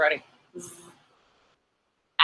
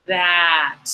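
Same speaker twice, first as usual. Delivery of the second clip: said slowly; 2 semitones lower than usual. Shown as a demonstration. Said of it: "Say it slowly".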